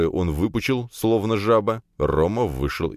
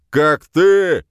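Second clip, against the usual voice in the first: choked, furious outburst, high and loud; sputtering rage; 11 semitones higher, 9 dB louder than usual. A narrator's reading. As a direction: splutter in fury. Sputtering boss choking on rage.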